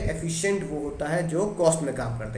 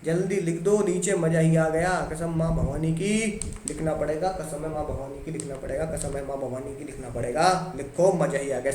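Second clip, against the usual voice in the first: mock student delight; 2 semitones lower than usual. Teacher voices students' delight.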